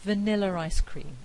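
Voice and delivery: "Vanilla ice cream" as "Vanilla-r-ice cream"; intrusive R. Shown as a demonstration. Lecturer giving another example, intrusive R inserted. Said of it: "I can have an intrusive R".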